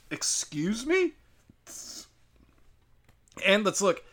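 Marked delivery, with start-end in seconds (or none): 0.1-1.1 incredulous. Acted. Incredulous reaction to mocked logic.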